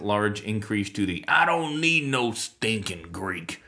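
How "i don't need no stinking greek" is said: lightly hammed-up dismissive voice, drawn out; slowly mock the scornful holdout; mock dismissive quote. Mock quote of anti-Greek camp.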